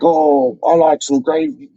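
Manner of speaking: half-hearted attempt at a northern English accent; poor northern accent. Imitating the man who disliked the liquor, poor northern accent. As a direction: have a weak go at northern English. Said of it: "I can't even do a northern accent".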